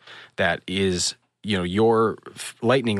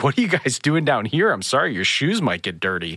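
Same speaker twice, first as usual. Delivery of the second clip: mock concern, starting higher; making fun; 5 semitones higher than usual. Smuggler to posh visitors, teasingly mocking. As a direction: lightly imitate someone needling pampered guests. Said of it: "the dude was making fun of us".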